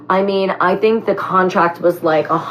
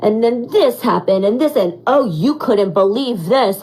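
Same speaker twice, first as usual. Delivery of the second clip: dramatic storytelling; 3 semitones higher than usual. Shown as a demonstration. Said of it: "Or I would be like".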